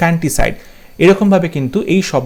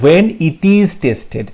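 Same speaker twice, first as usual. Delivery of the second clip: slow dictation; much slower than usual. Shown as a demonstration. Dictating the phrase.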